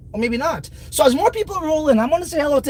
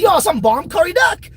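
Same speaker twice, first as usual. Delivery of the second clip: excited praise; 4 semitones higher than usual. Retold or imitated. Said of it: "I'm gonna say".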